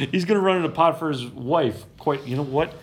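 ordinary talk

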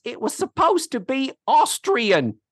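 high-pitched, acted-out protest; mock indignation. Iola correcting the accent compliment, in mock indignation. Acts out Iola's indignant comeback.

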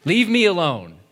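sibling telling off the messenger, mock angry; mock angry kid. Sibling's angry retort in example.

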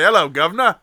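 botched Australian sliding into Cockney; Australian accent attempt. Shown as a demonstration. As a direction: badly fake an Australian greeting. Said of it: "what happened to the Australian one".

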